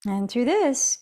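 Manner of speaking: guided meditation with long pauses between cues; unhurried yoga teacher, leaving space after each instruction. Real, not acted. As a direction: ease them gently into noticing the breath.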